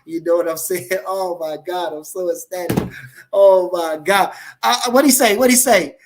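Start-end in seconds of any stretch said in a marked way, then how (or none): 3.3-6.0 excited. Real, not acted. Ecstatic fighter hyping on stream.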